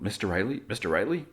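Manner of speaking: imitated distant call, rising at the end; muffled calling. Doctor calls to fading patient, lightly mimicked muffled voice. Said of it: "And then there's muffled".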